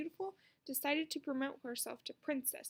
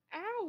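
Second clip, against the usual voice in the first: ow of pain; 7 semitones higher than usual. A narrator's reading. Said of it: "said Ramona".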